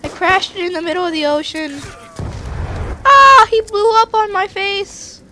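put-on high girly voice; squeaky little girl voice. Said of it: "tired of that girl voice".

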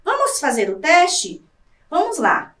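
ordinary talk

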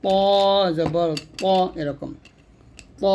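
ত with heavy emphatic t and rounded o; a dark, full-mouthed ত; thick heavy to. Shown as a demonstration. Teacher repeating for learners, thick emphatic t. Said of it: "তটা মোটা করে উচ্চারণ করব".

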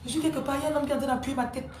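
a hint of a scared kid calling maman; child telling a bad dream. A child tells maman about the man in the dream, lightly scared. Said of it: "Tu rêves, tu fais que".

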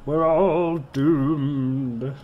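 very slow, drawn-out mock Scottish doom; bad Scottish accent. Quoting a Dad's Army comedy line, bad Scottish accent. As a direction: intone it as a hammed-up Scottish prophet of doom. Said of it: "Can't do a Scottish accent".

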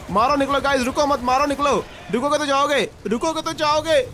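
urgent rallying call. Real, not acted. Gamer telling squad to shoot and run, urgent high call. Urging squad to flee zombies.

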